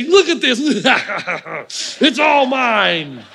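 slow, laughing gloat over the board. Retold or imitated. Grandma gloating to her grandson, slow laughing. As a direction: savour the win with a chuckle.

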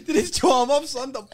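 high, breathless laugh through the words; talking while cracking up; real laughter carrying the line. Real, not acted. Friends cracking up together.

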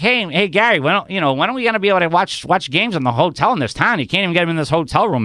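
high, whiny nerdy fan. Retold or imitated. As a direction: play a geeky superfan pestering. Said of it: "like, this nerdy voice".

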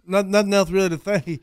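lisping wrestler-like delivery; accidental Dusty Rhodes. Real, not acted. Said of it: "I wasn't trying to do an impression of Dusty Rhodes".

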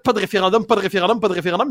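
mock compulsive repetition; imitated stuck-record refrain; Rain Man tic. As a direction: repeat it on a loop like a verbal tic. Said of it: "ils ont l'air de Rain Man".

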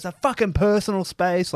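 imitated indignant, high-pitched protest; retold telling-off. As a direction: act out a friend warning him off. Imitates friend confronting the man.

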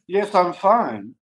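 drawn-out put-on "fine"; slow mock reassurance. Prankster assuring the worried caller, slow and put-on. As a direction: answer very slowly after the fake fit. Prankster answers after fake screams.

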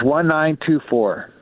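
"one nine two four" said slowly, each digit separate; spelled out digit by digit. Shown as a demonstration. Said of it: "Is it nineteen twenty-four?".

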